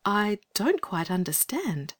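gentle. A narrator's reading. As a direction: ease the upset boy gently. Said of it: "said Anthea gently".

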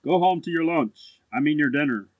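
put-on low, politely dismissive young gentleman; lofty, polite elder-brother voice; courteous. A narrator's reading. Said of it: "said the lamb courteously".

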